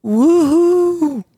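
high little woo cheer; a quick excited woohoo; hooray cheer. Real, not acted. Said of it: "What was that?".

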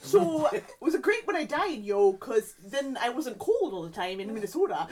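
put-on Minnesotan accent. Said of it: "if that's a Minnesotan accent".

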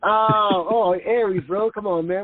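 light up at the shared sign; excited recognition. Real, not acted. To his friend on sharing a star sign, excited burst.

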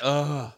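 imitated groggy "ugh"; hungover groan. Shown as a demonstration. Showing the noise you make hungover, groggy groan. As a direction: let out a demonstrated waking-up groan. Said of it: "Like, you make that".

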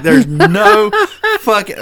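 high, loud burst of laughing protest; laughing disbelief. Real, not acted.

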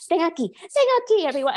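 high-pitched mock Spanish accent; Hilaria. Mocking her calling people over to the camera, high mock Spanish accent. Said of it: "With her offensive Spanish accent".

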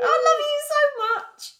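hammed-up adoring declaration; mock lovestruck. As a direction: gush it dramatically.

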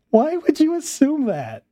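loud, high and slow disbelief; incredulous. Real, not acted. Asking the video's author, loud slow disbelief. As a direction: stretch out each word like it's absurd.

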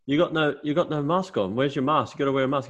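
a lightly put-on lecturing neighbour; scolding neighbour lady. Neighbour lady telling Tony to wear a mask, mock nagging.

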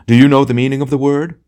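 high, loud indignant question; grand, outraged tragedian; theatrical challenge. A narrator's reading. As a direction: declaim it like a ham tragedian. Tragedian declaims at the lady.

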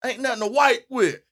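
mild joke-telling holler; hollering back. Acted. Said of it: "He hollered back".

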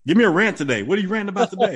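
mock an eager fan asking for a rant; pestering fan. Fan pestering him in public.

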